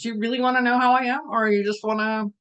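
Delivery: lightly hammed-up pushy asker; mock questioning. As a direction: press them with the question. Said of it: "So ask those questions".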